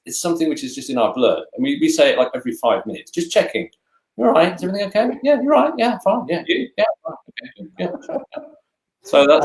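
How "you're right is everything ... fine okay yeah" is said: quick exchange. Retold or imitated. Acted quick Polish exchange.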